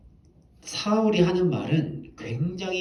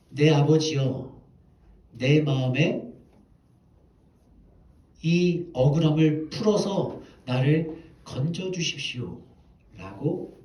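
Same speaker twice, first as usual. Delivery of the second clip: slow earnest plea; slower than usual. Retold or imitated. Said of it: "사울을 불러서 외칩니다".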